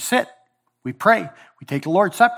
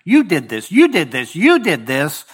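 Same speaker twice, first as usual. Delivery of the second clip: mounting accusation, louder each time; accusing; 4 dB louder than usual. Retold or imitated. Israel accusing God, rising louder accusation. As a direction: point the finger again and again.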